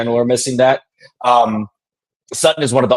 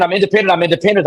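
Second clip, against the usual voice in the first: mocking Sutton; 7 semitones higher, faster than usual. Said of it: "she kept saying".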